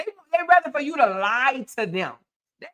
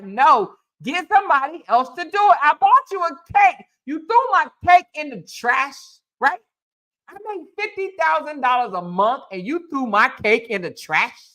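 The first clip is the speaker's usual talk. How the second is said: voicing Cora. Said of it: "is what Cora is telling him".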